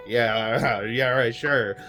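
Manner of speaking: scoffing, laughed-through mock agreement; mocking laughter. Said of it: "kinda just laughing at Rydell".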